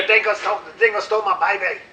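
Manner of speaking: lightly put-on Australian accent; mock Meryl Streep's Australian accent; film line impression. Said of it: "remember that film".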